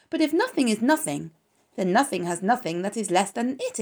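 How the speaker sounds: a pig puzzling out nothing with the lamb; arguing young pig. Acted. Wilbur argues eagerly.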